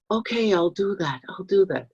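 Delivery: a hint of a submissive child agreeing; adapted child giving in. Shown as a demonstration. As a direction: sound small and eager to please. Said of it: "I'm acting it out".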